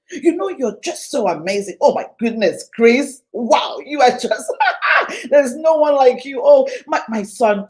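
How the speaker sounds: loud, delighted mock praise of a child; a parent lavishing praise on her son, loud and delighted; gushing praise. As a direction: rave over the kid like a proud parent.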